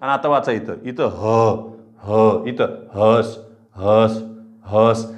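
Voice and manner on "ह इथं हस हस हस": हस said slowly with a long ह and a clipped स; slow syllable demo. Shown as a demonstration. Teacher to class, sounding out हस slowly with a bare स. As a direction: draw out ह in हस, end on a bare स. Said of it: "इथं परत हे लांबट".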